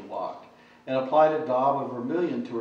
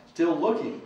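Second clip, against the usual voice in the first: lisping sing-song voice; 4 semitones higher than usual. Acted. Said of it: "in the lisping, sing-song, almost babyish voice".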